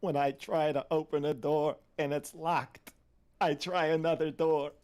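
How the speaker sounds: put-on slow, loud, high Jewish-accented old grandfather. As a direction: deliver a proverb in a heavy Jewish accent. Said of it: "my Jewish grandfather used to say".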